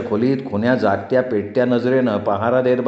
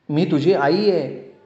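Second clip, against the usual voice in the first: slow, higher-pitched earnest appeal; pleading; 5 semitones higher, slower than usual. A narrator's reading. Mother insisting to her doubting son, pleading. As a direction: draw it out, imploring him to believe.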